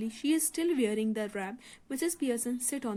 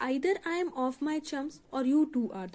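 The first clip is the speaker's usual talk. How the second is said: bewildered; 3 semitones higher, much slower than usual. Acted. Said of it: "staring at her bewildered".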